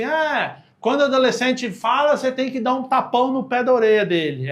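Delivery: lightly hammed-up know-it-all pronouncement; mock opinionated outburst. Imitated person with an outrageous opinion. (indignação imitada, em tom mais agudo)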